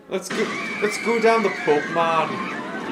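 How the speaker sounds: put-on northern accent. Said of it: "my northern accent".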